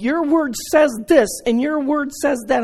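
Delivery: high ranting yell. Recounting ranting alone in the living room, retelling yelling at God. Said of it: "I'm like yelling".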